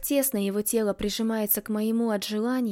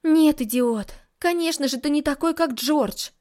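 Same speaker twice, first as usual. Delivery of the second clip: exasperated retort; 5 semitones higher, 4 dB louder than usual. Acted. Heroine retorts.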